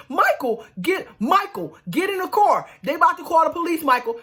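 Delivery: high-pitched urgent pleading; begging and pleading. Retold or imitated. Sarah urging Michael into the car, begging. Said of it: "Sarah is begging and pleading".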